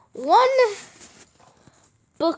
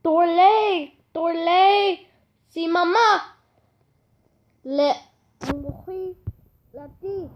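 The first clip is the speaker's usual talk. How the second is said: mock gibberish reply; 5 semitones higher than usual. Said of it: "Jack replied".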